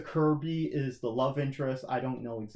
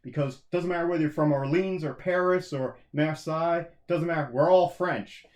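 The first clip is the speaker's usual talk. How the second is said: emphatic mock patriot rallying his countrymen; lightly acted nationalist rally; rallying cry; 4 dB louder than usual. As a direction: voice a proud citizen, punching it out. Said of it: "And be like".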